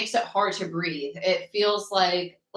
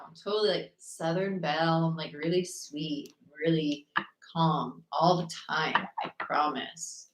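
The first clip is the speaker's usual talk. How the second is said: sarcastic; 3 semitones lower, 5 dB quieter than usual. Real, not acted. Tarot reader jokes she is a sweet Southern Belle, sarcastic. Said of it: "That was sarcasm".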